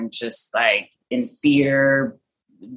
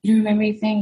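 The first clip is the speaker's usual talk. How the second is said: retold yelling; 7 semitones higher, faster than usual. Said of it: "'cause he was yelling".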